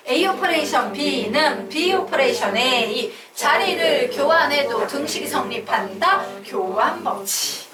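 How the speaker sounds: slow, rhythmic classroom chant; recitation drill. Shown as a demonstration. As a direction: lead the class in reading aloud, drawn out. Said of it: "요것만 두 번 더 읽고 가겠습니다". (또박또박 늘여 읽는 암송)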